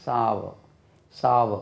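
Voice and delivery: சாவ as "SAA-va", long open a; சாவ said "sow-uh", no final r; pronunciation model. Shown as a demonstration. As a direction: model சாவ in two falling syllables. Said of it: "எப்படி உச்சரிக்கணும்?".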